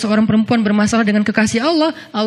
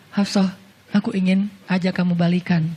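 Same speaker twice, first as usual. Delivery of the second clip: soft, low and tender; tender proposal; 3 semitones lower, 4 dB quieter than usual. Acted. The Prophet asking Hafsah to reunite, soft and tender. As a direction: ask her back gently.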